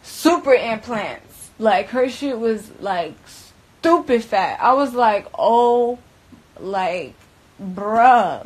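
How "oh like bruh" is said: shocked gasp. Retold or imitated. Reacting to her face.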